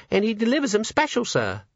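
put-on high, timid servant girl; nervous young maid. A narrator's reading. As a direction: stammer it out, frightened. Maid voiced.

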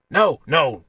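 emphatic, unconvinced denial; convincing himself. A narrator's reading. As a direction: insist as if persuading yourself. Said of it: "sounded like he was trying to convince himself".

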